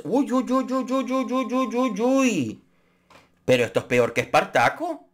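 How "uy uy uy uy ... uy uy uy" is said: mock shock. Scandalized tutting at the gossip.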